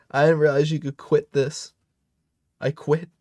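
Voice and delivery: amused disbelief. Real, not acted. Surprised the character can quit.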